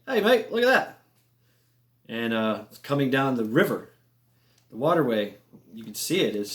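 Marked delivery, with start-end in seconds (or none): 0.1-1.0 Aussie guy calling. Retold or imitated. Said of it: "Aussie, uh, guys was like".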